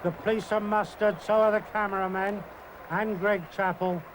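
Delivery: speaking through a chuckle; laughing. Real, not acted. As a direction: talk while trying not to laugh. Commentator amused by the streaker.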